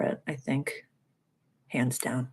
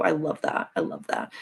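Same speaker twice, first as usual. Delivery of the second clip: much lower, playful deep voice; deep mock voice; 4 dB quieter than usual. Reacting to her own point: playful deep voice. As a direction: drop into a goofy deep voice. Repeated in low voice.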